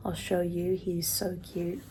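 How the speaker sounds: soft unvoiced whisper over the cat; hushed so the cat stays settled; whispering to pet. Real, not acted.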